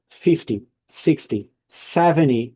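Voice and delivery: "fifty, sixty, seventy", each strong at the start and falling away; first-syllable stress. Shown as a demonstration. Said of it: "the stress is in the first syllable".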